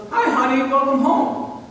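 high, loud, sing-song sweet welcome; cheery greeting. Retold or imitated. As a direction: greet him brightly as if nothing happened. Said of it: "and she goes".

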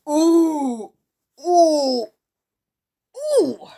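high, loud gasping ooh; shocked ooh. Real, not acted. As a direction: react like it's a shock. Shocked reaction to score.

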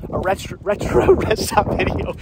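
laughing at own mumbling; laughing through frozen lips. Real, not acted. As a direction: chuckle with numb cold mouth. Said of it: "My mouth is frozen right now".

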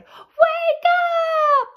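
very high, loud yell; principal's yell. Acted. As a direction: bellow it at the sleeping girl. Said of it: "yelled at Amy as loud as she could".

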